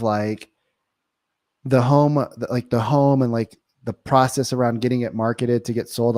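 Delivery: halting, unsure sales question with pauses; very curious. Shown as a demonstration. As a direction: wonder aloud, feeling for the words, not selling. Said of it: "coming from a very curious".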